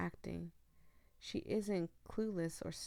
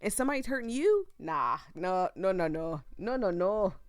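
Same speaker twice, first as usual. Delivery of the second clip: louder, rising angry rant; protective rant; 6 dB louder than usual. Real, not acted. Streamer telling viewers nobody hurts family, rising angry. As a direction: build to a furious no, no, no.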